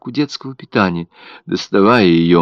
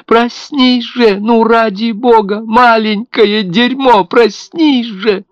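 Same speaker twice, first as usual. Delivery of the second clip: very high, louder, words slowed and hammered; furious screaming; 14 semitones higher, 6 dB louder, slower than usual. A narrator's reading. Mother screams and curses at her baby to wake, slow hammering shriek. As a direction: rage and terror at once.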